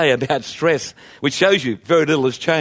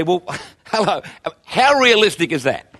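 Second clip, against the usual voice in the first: scoffing, amused disbelief; mock the verse with a laugh; incredulous; 3 semitones higher than usual. People scoffing at the verse, incredulous. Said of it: "their natural reaction is to say".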